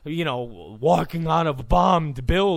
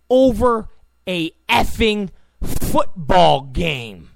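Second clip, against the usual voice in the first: louder, slow and indignant; angry outburst; 5 dB louder, slower than usual. Real, not acted. Ranting to viewers about football coverage, angry and slow. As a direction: spit it out slowly in disgust.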